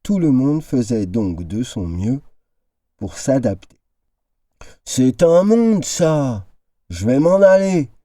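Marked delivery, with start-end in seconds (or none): 4.8-7.9 moaning complaint. A narrator's reading. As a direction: whine like an old man fed up with waiting. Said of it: "avait gémi le vieil homme".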